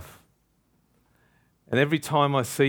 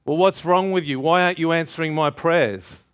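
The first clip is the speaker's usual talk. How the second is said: mock complaint; 4 semitones higher than usual. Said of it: "I complain".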